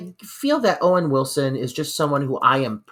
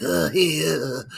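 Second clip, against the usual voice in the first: Owen Wilson impression; 4 dB quieter than usual. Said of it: "always just kinda like".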